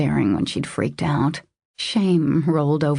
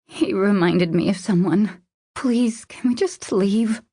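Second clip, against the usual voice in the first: pleading; 5 semitones higher than usual. Acted. Tearful woman begging to leave.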